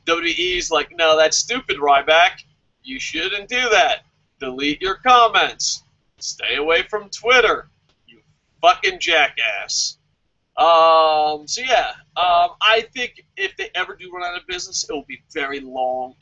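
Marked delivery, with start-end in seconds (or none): 0.9-10.0 lightly voiced stern company boss; slow, patronizing telling-off; scolding WWE voice.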